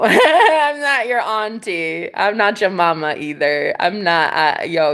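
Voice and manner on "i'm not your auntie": laughing. Real, not acted. Laughing retort to commenter.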